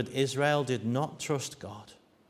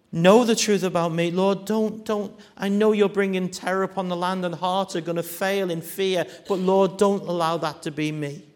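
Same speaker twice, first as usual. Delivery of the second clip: pleading prayer; 5 semitones higher, 5 dB louder than usual. Acted. Jeremiah's urgent prayer.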